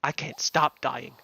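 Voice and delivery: lightly put-on American accent. Retelling Owen's line to Jack, accidental American accent. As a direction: quote it in a casual American accent. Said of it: "why am I doing an American accent?".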